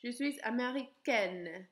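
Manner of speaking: "américaine" ending with a clear N sound; feminine, N audible. Shown as a demonstration. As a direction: say "américaine" with the N pronounced.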